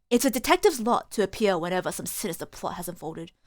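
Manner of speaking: weary detective. Acted. Detective remarking on sinister plots and nerves, lightly voiced low weariness.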